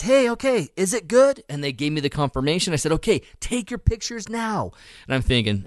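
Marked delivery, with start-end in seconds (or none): 0.0-1.4 high-pitched call across a distance; retold yell, pitched way up; calling back. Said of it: "I'm yelling back at those guys". 2.9-4.7 calling back. Retold or imitated. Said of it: "I'm yelling back at those guys".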